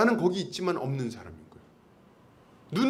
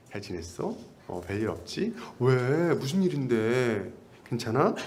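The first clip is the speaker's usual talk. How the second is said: gentle caring greeting; 5 semitones lower, slower than usual. Shown as a demonstration. Pastor demonstrating kind words to a newcomer, gently. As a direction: ask like you truly care. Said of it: "거울 보고 연습 좀 하세요".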